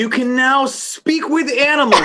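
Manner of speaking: high, loud words through laughter; laughing. Real, not acted. Player reads a silly card to the table, laughing. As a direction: read it out cracking up.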